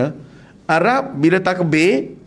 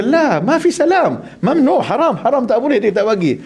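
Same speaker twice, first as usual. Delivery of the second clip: laughing Arab man; 7 semitones higher than usual. Retold or imitated. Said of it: "Ketawa Arab tu, kata".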